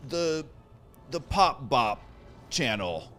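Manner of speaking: high, hammed-up pop radio announcer; radio station DJ. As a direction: hype the station like a DJ promo. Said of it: "which sounds like a music station".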